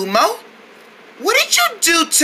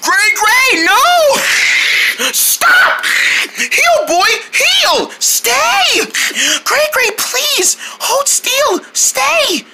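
shouted commands; 5 semitones higher, slower than usual. Pretend. Commanding the seal to stay.

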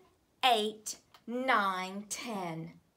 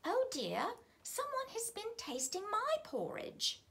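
Mother Bear voice; 12 semitones higher than usual. A narrator's reading.

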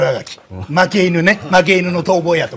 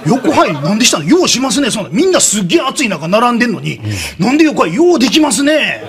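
mock scolding; 4 semitones higher than usual. Scolding a line-cutter, retold.

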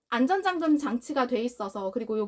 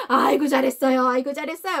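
praising the dog; 5 dB louder than usual. Shown as a demonstration. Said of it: "이렇게 퐁퐁 칭찬해주고".

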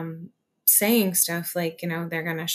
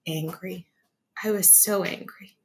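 whispered anger; 3 dB quieter than usual. Real, not acted. Telling of the store shutdown, a hushed whisper. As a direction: whisper it, the anger still there.

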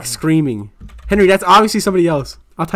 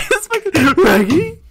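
high, squeaky laughing question; laughing disbelief; 11 semitones higher than usual. Real, not acted. Friend reacting to the clip in laughing disbelief. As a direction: gasp it out mid-laugh.

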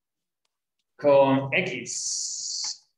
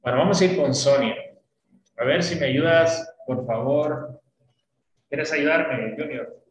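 calling out; 7 dB louder than usual. Real, not acted. Teacher calling a student up.

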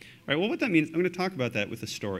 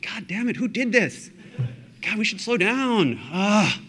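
louder, higher exasperated cry; frustrated outburst; 8 semitones higher, 4 dB louder, slower than usual. Retold or imitated. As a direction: vent like a stressed boss during an outage. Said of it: "I was like".

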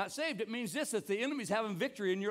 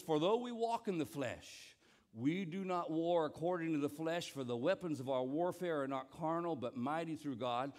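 scripture recitation; 3 semitones lower than usual. Shown as a demonstration. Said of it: "That was my turn".

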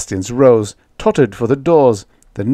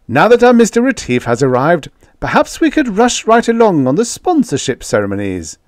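high, loud, officious voice; pompous host hurrying proceedings along; fussy ambassador; 9 semitones higher, 6 dB louder than usual. Acted. Ambassador addresses the banquet, high, loud and officious.

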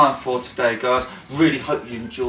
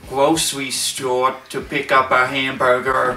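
put-on Tennessee accent; 2 semitones lower than usual. Telling about the day in the challenge, mock Tennessee accent. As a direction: try a country American accent. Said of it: "I need to hear a Tennessee accent".

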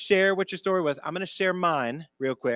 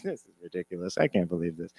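lower, softer snide aside to a friend; mocking kid; 9 semitones lower, 5 dB quieter than usual. Boy mocking the principal to his friend, low and snide. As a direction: joke under your breath to a buddy. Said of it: "laughing and joking to the other one".

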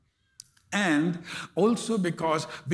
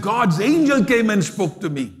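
louder and higher, a touch breathless; excited retelling; 4 semitones higher, 6 dB louder than usual. Retold or imitated. Woman telling the pastor about the angel, with mild excitement. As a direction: tell it like big news.

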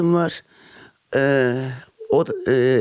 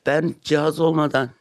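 short of breath, wheezing; wheezy voice. Real, not acted. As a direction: speak through labored breathing. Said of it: "Nefesimden ve sesimden de anlaşıldığı gibi". (hırıltılı ses)

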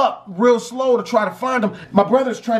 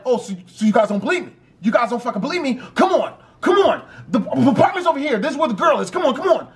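quick, stammering mock exasperation; protest, then urge them along insistently; indignant urging; 3 semitones higher, much faster than usual. Brother dragging doubting police to the apartment, indignant.

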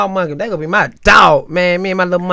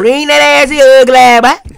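calling pet; 8 semitones higher, 9 dB louder than usual. Pretend. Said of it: "I'm like".

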